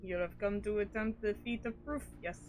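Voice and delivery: understated character voice, evenly paced; game character reading. Acted. Reads game dialogue in character.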